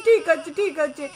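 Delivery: low, gentle reassurance; reassuring. Acted. Grandmother promising the baby that mother is coming, reassuring.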